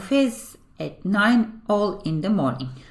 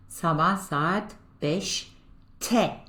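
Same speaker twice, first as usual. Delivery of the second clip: slow model pronunciation; much slower than usual. Shown as a demonstration. Teacher models time phrase.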